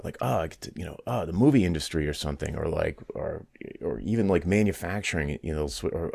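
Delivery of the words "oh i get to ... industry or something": mock excitement. Host imitating developers thrilled by a new industry, mock excitement. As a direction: imitate someone excited, without overdoing it. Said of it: "They're, like, all excited about".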